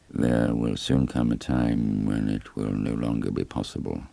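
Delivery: lightly voiced polite but cold mayor; a hint of an undertaker dismissing the vicar; aloof village mayor. Webster at the stone circle.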